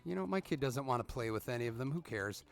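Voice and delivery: tossing it off like it doesn't matter; mock indifference. Retelling his own shrug-off.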